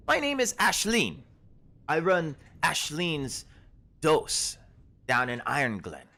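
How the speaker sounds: a startled forager shooing travellers back; herb-picking woman. Acted. GM voices Ashleen.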